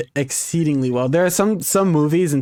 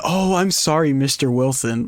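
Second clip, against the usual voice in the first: mock polite cop. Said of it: "When you hit him with the".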